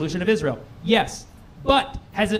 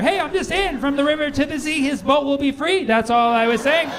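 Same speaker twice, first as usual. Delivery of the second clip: defensive innocent voice; 6 semitones higher than usual. Pretend. Defensive boat guide.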